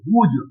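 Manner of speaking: whose as "hooj", starting on an h; h pronunciation. Shown as a demonstration. Teacher shows students that whose takes an h sound, h pronunciation. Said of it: "वो एच निकलेगा".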